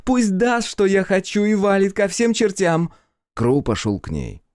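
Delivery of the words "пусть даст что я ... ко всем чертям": put-on high, loud, slow drunken taunt; drunk daughter. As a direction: barge in tipsy and mocking, voice pitched up. Drunk daughter defies father.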